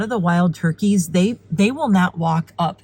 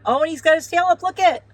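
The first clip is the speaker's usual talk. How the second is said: excited squeal; 10 semitones higher, 3 dB louder, faster than usual. Real, not acted. Thrilled at the strutting tom.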